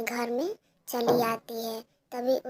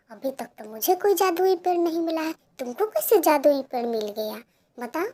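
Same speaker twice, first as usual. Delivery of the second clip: scornful mother; 3 semitones higher, 6 dB louder than usual. Acted. Mother mocking Pinky's magic tree story, scornful. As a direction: scoff at her story.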